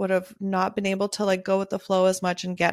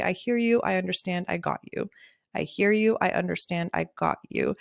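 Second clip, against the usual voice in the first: soothing, each phrase falling softer; calm reassurance; 3 dB quieter than usual. Retold or imitated. Photographer letting a stressed client feel heard, soothingly.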